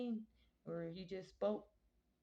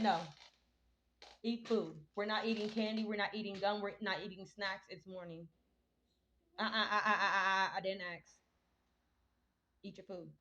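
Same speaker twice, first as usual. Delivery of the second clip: scolding; 6 dB louder than usual. Real, not acted. Scolding child for eating candy.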